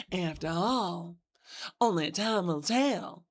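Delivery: sweet Kentucky hostess charm; southern belle. Acted. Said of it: "Southern Belle voice".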